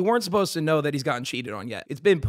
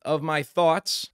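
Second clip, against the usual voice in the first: careful slow read; slower than usual. Real, not acted. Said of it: "I don't know how to say that word very well".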